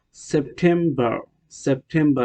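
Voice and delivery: সেপ্টেম্বর with the final r sounded; American pronunciation. Shown as a demonstration. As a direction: end সেপ্টেম্বর on an American "ber". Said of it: "American". (সেপ্টেম্বর, শেষের র-সহ American উচ্চারণে)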